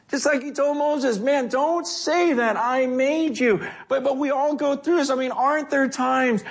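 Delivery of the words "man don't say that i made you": high, slow, insistent correction; emphatic rebuke. Acted. God telling Moses not to belittle himself, emphatic rebuke. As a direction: plead the point with stretched words.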